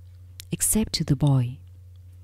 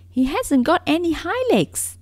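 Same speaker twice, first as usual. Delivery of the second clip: high, loud mocking call; 11 semitones higher, 5 dB louder than usual. White rabbit jeers loudly at the little rabbit. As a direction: white rabbit calling out to the others. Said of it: "he called out".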